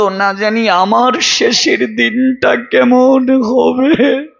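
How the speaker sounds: slow, drawn-out plaintive wondering; slow, mournful preacher's cadence; tearful lament. Acted. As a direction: let the last words stretch into a lament. Preacher's tearful lament at deathbed sight.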